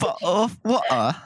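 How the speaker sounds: lightly faked British accent; bad British accent. Showing friends an accent, unconvincing British. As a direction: try British and miss. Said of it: "You sound like American trying to impersonate".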